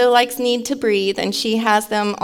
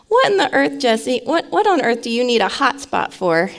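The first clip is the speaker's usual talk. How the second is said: baffled mom; 3 semitones higher than usual. Retold or imitated. Mom questioning her toddler's odd request, mildly baffled. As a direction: retell a bemused parent's question. Mother retells her puzzled reply.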